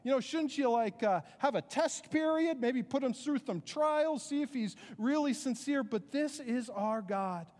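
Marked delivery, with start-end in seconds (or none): 0.0-5.8 skeptical listener. Retold or imitated. Preacher voicing a doubting churchgoer, mock protest. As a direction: play the doubter telling God to ease up. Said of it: "And you're like".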